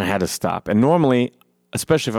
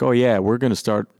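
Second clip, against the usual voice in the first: smug nonchalant; 3 semitones higher than usual. Retold or imitated. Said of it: "acting real, like, uh, nonchalant".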